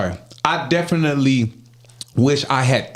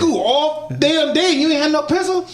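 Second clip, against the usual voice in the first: imitating coach; 13 semitones higher than usual. Coach voiced scolding student.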